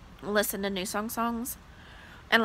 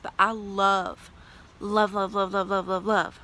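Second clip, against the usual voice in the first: gushing. Real, not acted. Gushing about loving her birthday.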